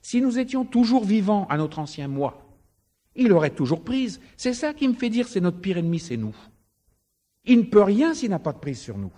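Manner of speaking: high, loud preaching; fervent preaching. Acted. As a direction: drive the point home from the pulpit. Preaching at full force.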